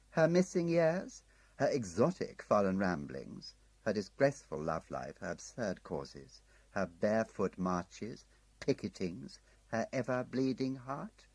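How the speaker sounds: coaxing, tempting offer of the file; Merriman's sly pitch. Acted. Handler tempting Tim with Emma's file, coaxing. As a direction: dangle each item like bait.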